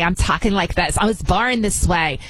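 lightly mimicked effeminate drawn vowels; mocking effeminate man. Host mimicking the man he says chooses this talk, mock effeminate. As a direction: put on a mild mock effeminate voice. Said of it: "choosing to talk like an effeminate".

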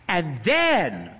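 lightly voiced elderly woman; a hint of a chatty old lady. A narrator's reading. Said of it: "Mabel continues".

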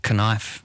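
knife with the K voiced, kuh-NIFE; mispronunciation. Shown as a demonstration. Co-host admitting a mistake, knife with K sounded. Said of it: "Why put a K in there".

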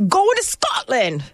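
high-pitched, badly faked Scottish accent; attempted Scottish accent. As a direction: have a shaky go at a Scottish accent, quickly abandoned. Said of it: "Is that a Scottish accent?".

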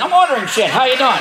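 brazen raccoon. Acted. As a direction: greet them like an unbothered raccoon. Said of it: "find them on the computer going".

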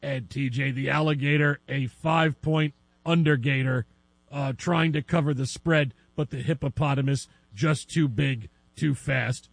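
low-pitched sportscaster calling the action; mock play-by-play. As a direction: call it like a deadpan game announcer. Mock play-by-play of animal fight.

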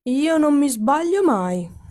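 mock the pompous lawyer's boast, drawn out; smug know-it-all parody; pompous mimicry. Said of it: "quel modo tronfio che ha di dire".

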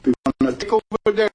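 voicing their threats with high-pitched alarm; imitating the extremists. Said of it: "They're saying".

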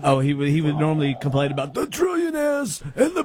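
fast shouted Bernie Sanders rant; ranting old senator voice; Bernie impersonation. Retold or imitated. Cohost mocking Bernie ranting at billionaires, shouted. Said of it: "our Bernie impersonation".

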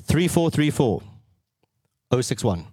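unhurried, spaced-out digits for listeners to note; slow phone-number dictation. Real, not acted. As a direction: read out digit by digit with long pauses.

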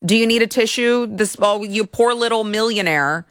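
sarcastic there-there voice; sarcastic pity. Real, not acted. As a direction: coo at a crybaby millionaire. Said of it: "cry me a river".

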